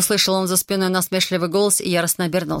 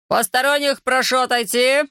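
officious order; 6 semitones higher than usual. Acted. Corporal orders girl away.

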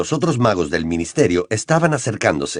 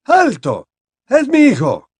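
high cry, climbing higher at the end; desperate shout; 13 semitones higher, 4 dB louder than usual. A narrator's reading. Father stopping wizards firing at his son, desperate shout. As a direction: shout to protect your child. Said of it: "gritó una voz familiar".

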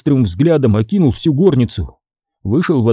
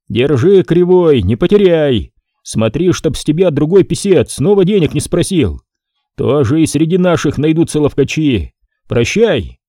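raised, patronizing clerk; mocking farewell; 3 semitones higher than usual. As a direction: hand it over with mockery. Scribe hands tally.

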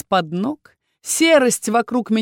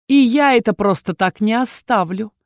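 angry hiss; 3 semitones higher, 5 dB louder than usual. Acted. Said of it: "зло прошипел Эрхан".

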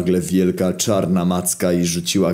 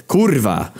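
exasperated curse; 8 semitones higher than usual. Acted. Narrator curses at own confusion.

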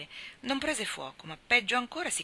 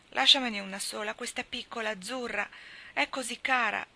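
higher, louder begging; pleading; 4 semitones higher, 4 dB louder than usual. Acted. Little girl begging Demi to spare one doll, pleading. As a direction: plead to keep the last doll. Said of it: "scongiurò la povera mammina".

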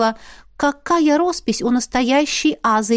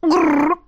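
growl; 6 semitones higher than usual. Acted. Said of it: "согласилась со мной Айна".

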